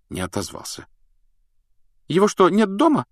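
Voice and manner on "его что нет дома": shivering with cold, teeth chattering. Acted. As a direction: ask it shivering from the frost. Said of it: "стуча зубами от холода".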